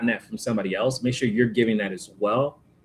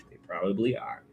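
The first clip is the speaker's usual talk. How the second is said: whisper; 3 semitones lower, 7 dB quieter than usual. Real, not acted. Whispered aside to viewers.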